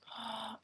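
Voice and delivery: exaggerated huffy gasp, imitating a whiner; whiny gasp. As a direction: gasp in mock distress. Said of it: "she's just whining".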